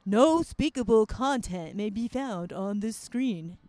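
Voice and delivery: imitating robot man. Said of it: "a robot man comes out and goes".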